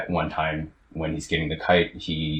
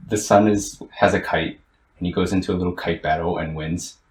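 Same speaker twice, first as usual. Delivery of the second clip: real emotion rising, pitched up; choking up; 2 semitones higher, 5 dB louder than usual. Real, not acted. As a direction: laugh it off while getting choked up. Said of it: "Yeah, I'm choking up".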